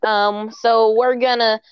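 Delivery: politician voice. Acted. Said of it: "some of what I do for the role".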